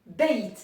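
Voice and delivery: beit with no vowel after the y; beit, closed and stopped; demo word. Shown as a demonstration. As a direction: model beit cleanly. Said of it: "Et donc ça se lit".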